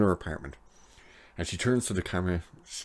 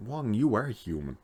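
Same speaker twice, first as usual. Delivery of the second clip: higher, swooping disbelief; can't believe it has to be said; incredulous; 5 semitones higher than usual. Real, not acted. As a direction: point out the obvious in amused disbelief. Baffled by Wong's odd remark.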